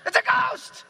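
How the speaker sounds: very high, loud mock terror; comic hysterical scream; panicked screaming. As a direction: shriek it in hammed-up panic. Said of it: "they're like".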